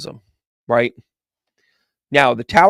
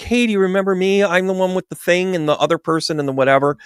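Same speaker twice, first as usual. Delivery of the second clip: mock chirpy fan; 6 semitones higher than usual. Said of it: "they'll be like".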